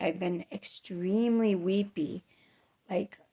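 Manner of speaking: whispered confession; hushed, confiding admission. Real, not acted. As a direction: let it slip out in a whisper, a little ashamed. Confessing she's weepy.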